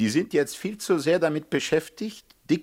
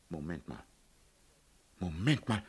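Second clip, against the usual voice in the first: dawning realisation; 10 semitones lower, 10 dB quieter than usual. Acted. An idea dawns on him.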